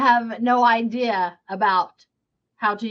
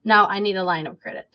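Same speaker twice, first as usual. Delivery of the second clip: firm; 2 semitones lower, much faster than usual. Shown as a demonstration. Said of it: "Just be firm that".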